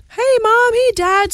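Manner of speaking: brother's loud mock call to the parents. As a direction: call out cheerfully to alert the parents. Brother calling out in story.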